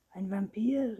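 a touch of shocked disbelief, falling; horrified echo. A narrator's reading. Anton repeating his mother's question, mildly horrified. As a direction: echo the word in mild horror. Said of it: "rief Anton entsetzt".

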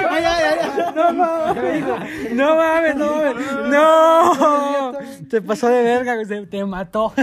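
very high, loud, through laughter; hysterical shrieking. Real, not acted. Friend reacting to a brutal comeback, hysterical shrieking. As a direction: shriek it while cracking up.

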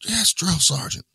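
high, slow barked reply; barked military recruit reply. Retold or imitated. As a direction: snap it back like a scared recruit. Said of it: "He's like".

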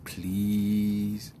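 lightly imitated stuttering plea; slow, stuttering mock plea; Eddie Murphy. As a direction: stammer on "I", then stretch the request out slowly. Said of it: "And Eddie Murphy said".

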